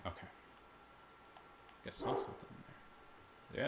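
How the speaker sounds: breathy whisper, barely voiced; hushed whisper. Real, not acted. Nervous player whispering at the screen, hushed. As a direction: whisper it so the monster won't hear. Tense moment in horror game.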